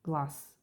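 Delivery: glass with a voiceless final s; devoiced final consonant. Shown as a demonstration. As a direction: say glass ending in "s", not "z". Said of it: "We hear".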